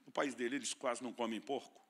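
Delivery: ordinary delivery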